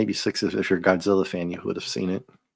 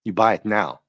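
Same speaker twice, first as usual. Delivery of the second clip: put-on Ricardo Montalban accent. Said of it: "Can you imagine with that accent?".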